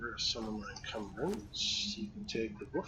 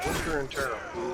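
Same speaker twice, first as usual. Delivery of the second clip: mock villain taunt; 4 dB louder, faster than usual. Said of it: "repeats the game taunt".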